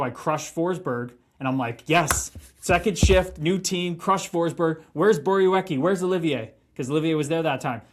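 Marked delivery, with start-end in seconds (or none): 1.9-6.5 pumped-up. Retold or imitated. Pumped-up inner voice after hit.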